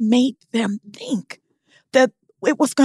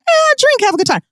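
generous stranger; faster than usual. Retold or imitated. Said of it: "It's never just like".

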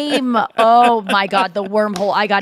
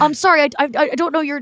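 higher, sweetly apologetic voice; apologetic kid, pitched up; sincere young bellman; 5 semitones higher, faster than usual. Retold or imitated. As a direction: lightly imitate an earnest young bellman. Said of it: "sincere bellman that was like".

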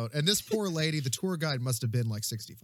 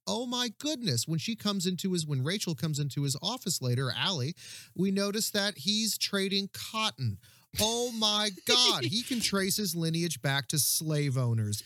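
sarcastic Southern belle gushing over a slaveholder's heir; mock gushing; 4 semitones higher than usual. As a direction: gush like a starry-eyed Southern belle.

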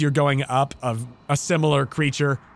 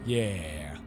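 dropping fake accent; 7 semitones lower, 8 dB quieter, much slower than usual. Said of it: "This voice keeps changing".

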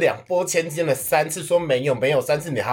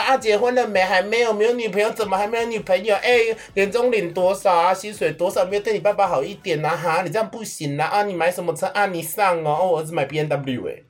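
a hint of a nosy uncle, rapid-fire questions, higher; imitating nagging uncle; 5 semitones higher than usual. Uncle grilling nephew at New Year, mild mock nagging. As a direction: rattle off the questions like a prying uncle.

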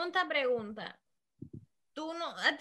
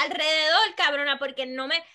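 ordinary talk

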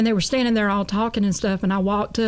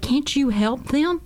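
higher, slow mimicked plea; tearful pleading; 6 semitones higher, slower than usual. Converted dealer begs her to help those in hell, pleading. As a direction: plead slowly, imitating someone in tears. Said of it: "started crying and crying and sobbing".

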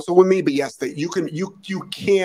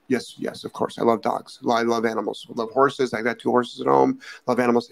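store clerk voice; 4 semitones lower than usual. Acted. Acts out feed-store clerk.

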